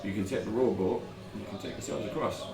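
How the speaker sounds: ship captain voice. Acted. GM voices captain describing island.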